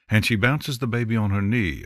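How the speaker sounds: ordinary delivery, nothing marked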